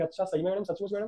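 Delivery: soft, unsure question; timid asking. Acted. Bholi asking her teacher if it is true, hushed. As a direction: ask it in a small hushed voice. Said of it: "looked up as if ask".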